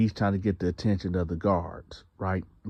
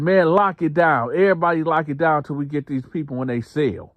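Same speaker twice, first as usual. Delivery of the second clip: high, loud lockdown order; guards shouting; 7 semitones higher, 4 dB louder than usual. Retold or imitated. Guards ordering everybody locked down, loud. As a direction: yell it across the block. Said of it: "They like".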